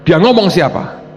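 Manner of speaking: slow, high, insistent question; God. Retold or imitated. Preacher voicing God driving the point home, slow insistent question. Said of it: "Tuhan ngomongnya gini".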